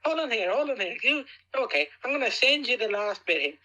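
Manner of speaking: daring him to try it himself; excited challenge. Real, not acted.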